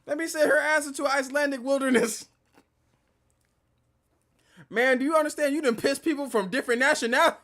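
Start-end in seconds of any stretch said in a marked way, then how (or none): 0.0-2.3 imitating Rim. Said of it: "Rim's just like".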